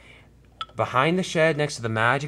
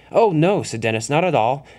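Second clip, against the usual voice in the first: flustered denial; 4 semitones higher, 5 dB louder than usual. Acted. Dennis hastily denies having a plan.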